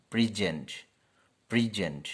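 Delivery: প্রেজেন্ট as verb, stress on the end; verb present. Shown as a demonstration. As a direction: stress on the second syllable of প্রেজেন্ট. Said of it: "যখন শব্দটি verb হবে".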